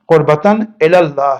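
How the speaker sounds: قربتاً الی اللہ as "qurbatan ela-llah"; correct pronunciation. Shown as a demonstration. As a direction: sum up with a clear "ela", single L. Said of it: "صحیح pronunciation".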